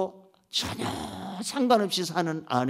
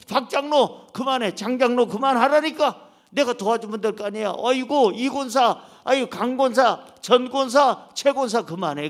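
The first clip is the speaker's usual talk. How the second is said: 다급하게 말리듯 높고 크게; 놀란 하나님이 성도들을 붙잡듯; 말리는 하나님; 4 semitones higher, 5 dB louder than usual. Pretend. (금식하는 성도들을 말리는 다급한 하나님 목소리)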